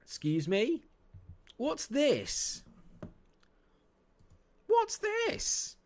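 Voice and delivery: high, incredulous squeal; can't believe what you're seeing; shrill-pitched outrage at the screen; outraged disbelief. Real, not acted. Outraged at opponent's formation.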